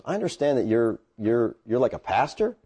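hesitant, softly halting question; sheepish. Retold or imitated. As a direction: imitate a sheepish old buddy. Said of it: "kinda sheepishly, he goes".

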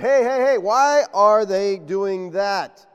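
loud indignant challenge, then dragged out slowly; mock accusing Pharisees. Pharisees challenging Jesus about his disciples, mock indignant. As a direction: call out like a scandalised Pharisee.

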